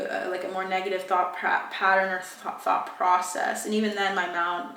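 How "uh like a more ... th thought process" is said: tripping over words with false starts; halting, self-correcting delivery; stuttering. Real, not acted. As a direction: stumble and restart while searching for the word. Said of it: "I feel like I'm stuttering a lot".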